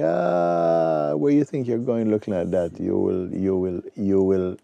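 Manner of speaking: mock him from above, loud and scornful; scornful courtiers jeering at young Ashtavakra. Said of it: "Many of them were laughing".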